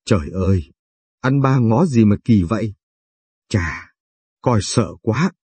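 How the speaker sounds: lightly voiced woman exclaiming; a hint of a woman crying out in mock fright; woman's mock exclaim. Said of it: "thấy cô kêu lên rằng".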